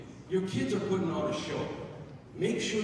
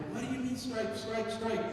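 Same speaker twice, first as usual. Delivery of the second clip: retold indignant yelling, pitched up; yelling parents; 7 semitones higher than usual. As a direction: imitate outraged parents in the stands. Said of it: "Parents are yelling".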